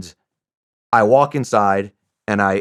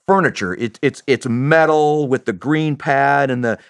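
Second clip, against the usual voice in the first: ordinary talk, nothing marked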